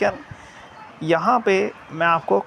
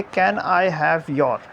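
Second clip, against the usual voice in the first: "Can I have your" slow, on one unchanging pitch; stationary tone; much slower than usual. Shown as a demonstration. Teacher marking the question's first part, "Can I have your" held level. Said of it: "ये आपकी स्टेशनरी tone है".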